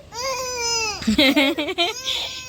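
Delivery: long, high, soft giggle; amused laughter. Real, not acted. Laughs at the crying child. (ಮುದ್ದಾಗಿ ಕಿಲಕಿಲ ನಗು)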